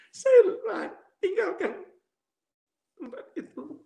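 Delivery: high, breaking retold distress; tearful. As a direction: choke up while telling of leaving. Retelling tearful departure from the house.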